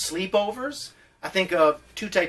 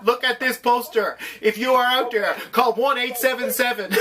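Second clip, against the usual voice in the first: infomercial voice; 5 semitones higher than usual. Retold or imitated. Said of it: "you sound like a mad infomercial".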